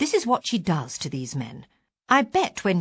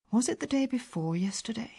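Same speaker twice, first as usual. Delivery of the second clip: whisper; 4 semitones higher, 5 dB quieter than usual. Real, not acted. Confused alone.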